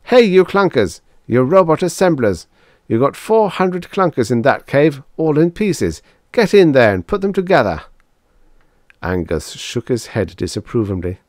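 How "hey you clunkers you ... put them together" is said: raised, high-pitched command to a crowd; loud, high, urgent rallying call; desperate orders. A narrator's reading. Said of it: "Desperately, he faced the robots".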